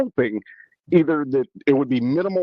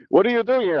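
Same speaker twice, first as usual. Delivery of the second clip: put-on much higher, full European-accented old man; old man's European accent; 11 semitones higher than usual. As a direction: nail the accent this time, high and scolding. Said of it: "This, this is what he sounded like".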